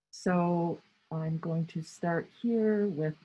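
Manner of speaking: talking through a face mask; muffled, masked speech. Real, not acted. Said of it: "It's really hard to talk with the mask on".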